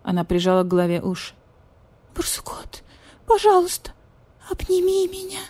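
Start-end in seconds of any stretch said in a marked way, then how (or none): 2.2-5.4 whispered name, then very high pleading; pleading cat. Acted. Cat begs badger-cat for a hug, pleading squeak.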